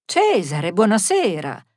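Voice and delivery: hearty, projected hello; loud greeting. Acted. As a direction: call out the greeting firmly. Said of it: "lo salutò ad alta voce".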